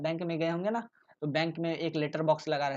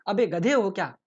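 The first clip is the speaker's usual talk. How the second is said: rude scolding; 3 semitones higher, 6 dB louder than usual. Shown as a demonstration. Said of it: "एक अच्छा सा सटीक example".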